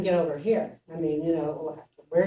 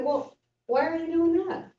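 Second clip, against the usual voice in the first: monk asking why; 10 semitones higher than usual. Retold or imitated. Monk asks teacher.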